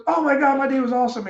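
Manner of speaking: high, loud gush; hyper and gushing. Retold or imitated. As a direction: oversell how great the day was. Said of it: "hyper awesome day attitude".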